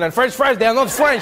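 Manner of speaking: lightly impassioned mock French protest; imitated passion. Comedian imitating a French audience member correcting him, with mock passion. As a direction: echo his indignant insistence, mildly hammed-up. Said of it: "I like how you said that with passion".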